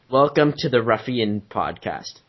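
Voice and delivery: slow American model sentence; American accent. Shown as a demonstration. Giving a friend the sentence to copy, slow American accent. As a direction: lay it out slowly in an American accent. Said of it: "what you gotta say in an American accent".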